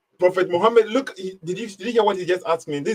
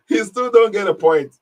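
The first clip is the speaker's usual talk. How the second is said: mocking; 5 semitones higher, 6 dB louder than usual. Real, not acted. Mocking the caller to listeners.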